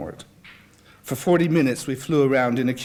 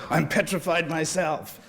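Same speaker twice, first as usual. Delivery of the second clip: slow, hushed mock-petrified confession; petrified admission; 4 semitones higher, slower than usual. A narrator's reading. Nick confessing his fear of small planes, slow and mock-scared. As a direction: own up to being scared, drawn out. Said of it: "Nick said with feeling".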